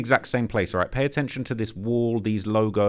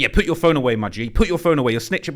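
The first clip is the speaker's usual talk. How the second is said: mock scolding bystander; 3 semitones higher, 4 dB louder than usual. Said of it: "but you're like".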